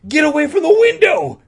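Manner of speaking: high, screamed warning; hammed-up alarm shriek. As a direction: yell frantically to get people clear. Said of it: "Todd warned".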